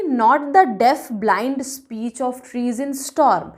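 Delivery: slow verse with an emphatic start; measured, weighty poem reading; poem recitation. A narrator's reading. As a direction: open firmly, then recite slowly and deliberately. Reads the poem aloud.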